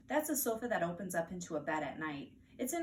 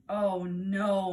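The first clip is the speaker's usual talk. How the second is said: louder alarmed exclamation; alarmed cry; 8 dB louder than usual. Acted. Mother realizes Fudge ate flowers, loud alarmed cry. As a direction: gasp it in sudden alarm. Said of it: "my mother cried".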